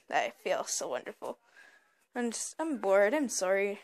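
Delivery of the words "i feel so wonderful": mock contentment. Mock contented remark, talking to herself.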